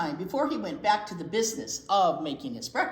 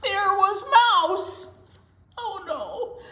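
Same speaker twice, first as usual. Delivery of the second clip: surprised; 12 semitones higher, 9 dB louder, slower than usual. A narrator's reading. Mouse found in tea kettle.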